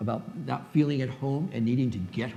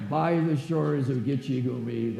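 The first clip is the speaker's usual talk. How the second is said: slow, measured poetry recital; recited Longfellow line; slower than usual. Shown as a demonstration. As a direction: recite it like a schoolroom poem. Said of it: "you know Longfellow".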